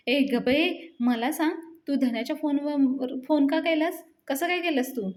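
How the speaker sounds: lightly voiced annoyed questioning; scolding. Palya demands why Payal rang Dhanya's phone, mildly scolding. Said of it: "तिच्यावर जास्तच ओरडतो आणि म्हणतो".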